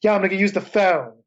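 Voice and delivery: thicker local Philly accent, lightly put on. Shown as a demonstration. Creator shows how Philly locals talk, in Philly accent. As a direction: talk like a Philly neighborhood guy. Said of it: "That's how they talk".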